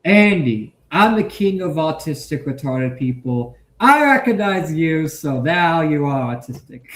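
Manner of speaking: lightly hammed-up royal proclamation; mock king. Playing a king granting Andy recognition, mock-solemn. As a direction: proclaim it like a pretend king, punching the openings.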